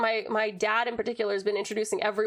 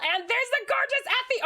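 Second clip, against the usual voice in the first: excited greeting; 12 semitones higher than usual. Real, not acted. Greeting viewer in cutesy voice.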